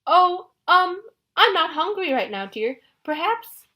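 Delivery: high, loud flustered falsetto; high squeaky girlish put-on; nervous fake bride. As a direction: play the coy bride badly. Grover in disguise as bride.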